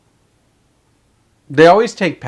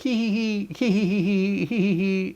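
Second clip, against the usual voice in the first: mock giggle; 7 semitones higher, 7 dB quieter than usual. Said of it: "And they're like".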